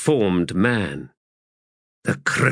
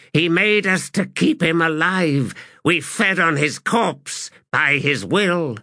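high, slow, solemn proclamation; solemn prophetic voice; 7 semitones higher, slower than usual. Acted. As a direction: intone it like a fervent prophet.

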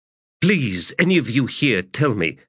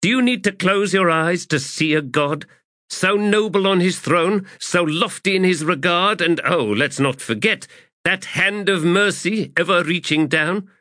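much higher, biting rhetorical questions; challenging; 12 semitones higher than usual. Acted. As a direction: scorn them with each question. Adjunct confronts the officers.

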